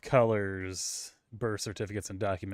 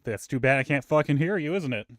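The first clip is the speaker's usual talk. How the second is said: higher-pitched, lightly imitated scolding; mock stern; 5 semitones higher, 4 dB louder than usual. Stern coworker answers whining line-cutter, mock scolding. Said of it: "But she's also stern".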